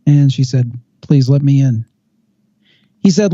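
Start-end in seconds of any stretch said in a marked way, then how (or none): 1.0-1.9 retold plea in a drone-like voice; emotionless drone. Girl at the door asking to enter, emotionless drone. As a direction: lightly imitate an emotionless, level plea. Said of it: "talking in kind of an emotionless, drone-like voice".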